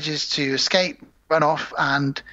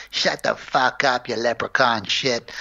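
Chucky; 3 semitones lower, slower than usual. Pretend. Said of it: "Chucky had even better lines".

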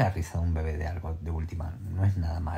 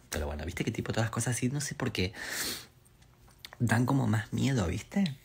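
ordinary delivery

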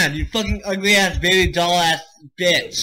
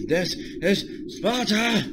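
slow, drawn-out mock battle cry; lightly voiced movie Spartan king, slow; King Leonidas; 5 semitones higher, much slower than usual. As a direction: ham up the Spartan king's famous line. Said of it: "That's King Leonidas from three hundred".

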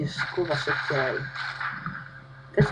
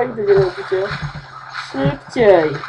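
ordinary talk, nothing marked

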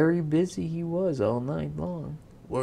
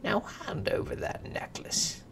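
high, hissed demand; demanding imp; 9 semitones higher than usual. Acted. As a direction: hiss it, greedy and impatient.

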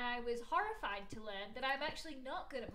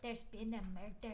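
slow, put-on Scottish accent with rolled r. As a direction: draw out MURDER in a Scottish accent. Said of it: "Can you do a Scottish accent".

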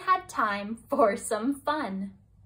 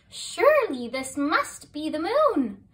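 hopeful cry; 4 semitones higher, 4 dB louder than usual. Acted. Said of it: "she cried".

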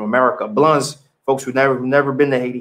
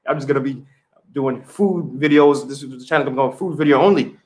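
joking threat. Pretend. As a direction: pretend sulky ultimatum, tongue in cheek. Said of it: "I'm kidding".

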